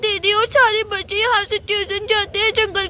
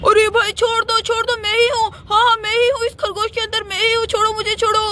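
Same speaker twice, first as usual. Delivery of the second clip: begging for mercy; 2 semitones higher than usual. Acted. Thief begging while beaten.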